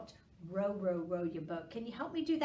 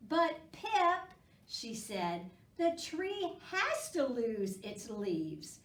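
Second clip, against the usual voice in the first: gentle read-aloud for little ones; storybook reading; 3 dB louder than usual. A narrator's reading. Reading a squirrel story aloud to children, gently. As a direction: read it like a picture book at storytime.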